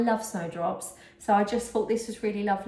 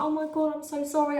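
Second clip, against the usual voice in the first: mild apologetic nan; 5 semitones higher than usual. Retold or imitated. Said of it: "She's like".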